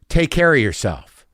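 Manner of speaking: imitating the tech's loaded take care; loaded farewell. MRI tech to departing patient, loaded tone. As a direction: say goodbye as if it hints at bad news. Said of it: "Did you hear my tone just then?".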